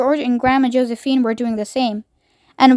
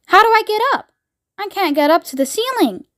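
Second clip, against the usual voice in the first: put-on anxious boy voice; 8 semitones higher than usual. Charlie's voice, struggling.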